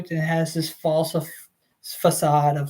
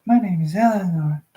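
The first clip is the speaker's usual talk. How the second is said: put-on a small girl introducing herself sweetly; baby voice; 2 semitones higher than usual. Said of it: "let me try that again".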